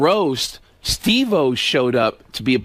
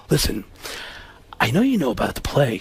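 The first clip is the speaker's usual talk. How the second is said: lightly imitated earnest actor; level, careful mock explanation; Alec Baldwin; 4 semitones lower, 4 dB quieter than usual. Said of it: "And he goes".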